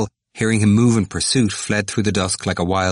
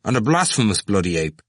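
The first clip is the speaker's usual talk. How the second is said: weight on "blasphemous", then falling away; emphatic. A narrator's reading. Cranley adding to his insult, emphatic. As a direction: lean firmly on "blasphemous". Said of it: "repeated with emphasis".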